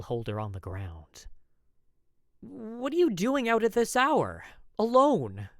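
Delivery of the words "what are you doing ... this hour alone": much higher and louder, alarmed; high, loud alarmed question. A narrator's reading. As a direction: cry out in alarm at her being alone. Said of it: "I asked, alarmed".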